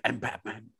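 a hint of a gruffer, hushed superhero; Keaton's Batman. Co-host recalling Keaton's Batman, slightly gruff impression. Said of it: "a little bit gruffer?".

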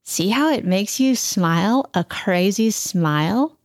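words through a pencil in the teeth. Shown as a demonstration. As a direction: talk with a pencil bitten between teeth. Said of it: "Can you pretend".

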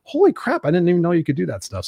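high, stunned "Holy crap"; amazed. Retold or imitated. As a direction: blurt it out in high-pitched disbelief at the photo retouching. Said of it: "I'm like".

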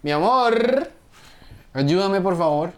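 high, drawn-out call to a partner. Real, not acted. Host calling a partner to help with a cable, calling out. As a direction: call sweetheart over for help.

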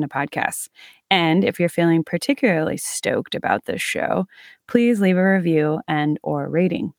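measured host's sign-off with lifted phrase openings; podcast outro read. Acted. Host signs off to listeners with contact details and plugs, podcast outro read. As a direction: read out the show's closing announcements. Scripted podcast closing plug.

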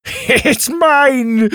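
high, loud gloating cry; gleeful triumph. Acted. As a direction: crow over the prize. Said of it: "Drake laughed".

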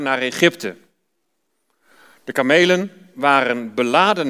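measured, even Bible-reading voice; reading Genesis aloud in church; scripture reading. Acted. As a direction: read the passage to the congregation.

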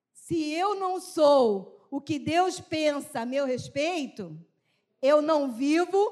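slow reading aloud. Shown as a demonstration. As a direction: read the phrase slowly, stressing eu. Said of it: "agora eu queria que você lesse essa frase comigo". (leitura lenta e enfática)

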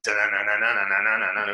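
sung-out "da-na-na" intro music; imitated music build-up. Guest mimicking the intro music for the host, imitated build-up. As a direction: mimic a show's theme building up. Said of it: "it's like this whole build up".

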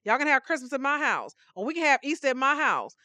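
volunteer eagerly; eager offer. Retold or imitated. Martha offering to host Jesus, eager. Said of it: "where we said".

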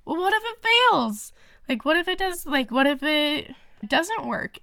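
high, anxious retelling of her own doubts; worried what-ifs. Retold or imitated. Imitating her past self to her husband, high and fretful. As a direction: pitch it up like old fears spilling out. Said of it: "'cause I would be like".

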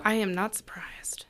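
unvoiced whispered aside. Real, not acted. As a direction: whisper it like a secret.

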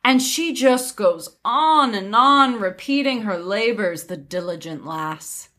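sweetly overdone sincerity; disguised sarcasm. Acted. Widow deceiving the nosy prince, veiled sarcasm. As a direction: feign polite praise with lilting stresses. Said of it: "with well-disguised sarcasm".

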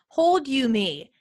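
put-on slow, lightly childlike Hold you me, words drawn out; a hint of a toddler asking to be held; imitating toddler. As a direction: mimic the little girl's mixed-up phrase. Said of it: "she has always said".

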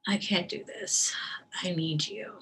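soft, breathy, tearful prayer; pleading in near-whisper through tears; tearful plea to God. Retold or imitated. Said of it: "I'm just crying out to God".

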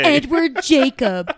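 slow, loud, sneering Edward Jacob; disgusted drawl. Acted. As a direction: drag the name out in scorn. Mocking the name.

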